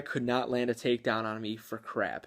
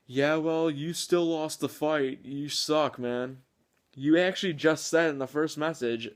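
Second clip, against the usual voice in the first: higher, whiny mock-angry gamer voice; 4 semitones higher than usual. Reading the sore loser's message, mocking and whiny. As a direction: whine it back like a sore loser.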